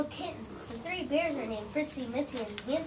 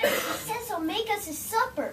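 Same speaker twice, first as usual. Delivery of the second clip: alarmed pigs; 8 semitones higher, 4 dB louder than usual. Acted. Pigs panic.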